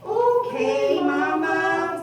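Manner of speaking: piglets agree. Acted. Two piglets give in to Mama. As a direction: agree reluctantly. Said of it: "said the two little pigs".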